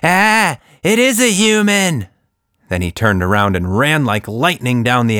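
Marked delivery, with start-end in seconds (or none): 0.0-2.1 high, loud scared cry; a mouse shrieking in fright; frightened shriek. A narrator's reading. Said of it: "let out a high-pitched shriek".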